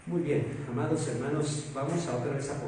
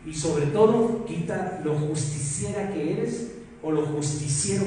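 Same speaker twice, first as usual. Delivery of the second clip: preaching emphasis; 4 dB louder than usual. Acted. Preacher raises voice for point.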